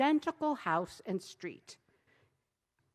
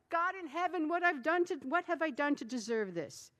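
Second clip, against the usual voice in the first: wife lamenting; 5 semitones higher, 5 dB louder than usual. A narrator's reading.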